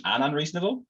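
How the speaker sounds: "unreasonable" drawn up high at the end; "unreasonable" emphasised with a rising finish; stress on unreasonable. Real, not acted. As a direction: lift the pitch on "unreasonable" to underline it. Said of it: "I really wanna emphasise that word".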